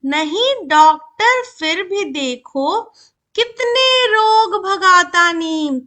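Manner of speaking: slow, drawn-out verse reading; poem recitation. Shown as a demonstration. Teacher reads the neem poem to children, slow recitation. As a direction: stretch each word out in measured verse. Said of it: "चलो अब कविता पढ़ते हैं".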